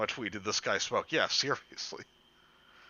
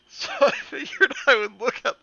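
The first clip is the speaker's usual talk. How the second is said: squeaky high voice; 14 semitones higher, 8 dB louder than usual. Acted. Keeps the silly reading voice.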